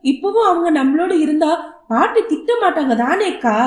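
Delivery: a lightly voiced little boy. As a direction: play the young son, pleading and earnest. Young son complains to sister.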